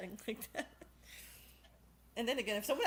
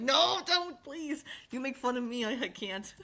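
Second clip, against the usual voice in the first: mock pleading; 4 semitones higher, 4 dB louder, slower than usual. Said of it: "I'm like".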